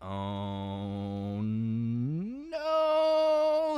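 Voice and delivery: low, hushed dread; scared hush. Retold or imitated. Storyteller voicing friend alone in attic, hushed dread.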